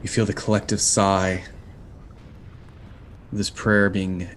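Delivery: measured, unhurried scene-setting; game master narration. A narrator's reading. Game master describing the omen to the party, slow and grand. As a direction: paint the omen slowly for the players.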